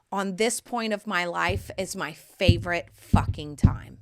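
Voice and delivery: emotional whisper. Real, not acted. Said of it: "I'm getting a little emotional".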